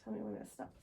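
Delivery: soft unvoiced whisper for a hearing test. Shown as a demonstration. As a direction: whisper it so they barely hear. Hearing test, examiner speaks softly.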